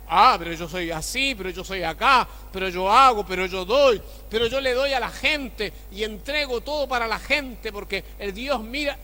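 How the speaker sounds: a touch of a man defending his own merit; protesting good person. Retold or imitated.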